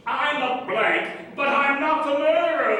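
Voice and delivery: hammed-up murder-mystery protest; mock-dramatic stock confession; mock trope line. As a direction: parody a suspect's stock denial, punched out. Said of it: "Another trope is satisfied. She did the".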